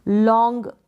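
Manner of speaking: drawn-out "लॉन्ग"; long sound. Shown as a demonstration. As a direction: stretch out "लॉन्ग" to show length. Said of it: "लॉन्ग sound आएगा".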